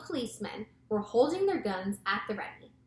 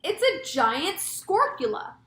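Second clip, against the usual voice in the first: high, slow, loud cry of doom; drawn-out panicked wail; yelled alarm; 8 semitones higher, 6 dB louder, slower than usual. A narrator's reading. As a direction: cry out that all is lost. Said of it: "yelled the head of the fire department".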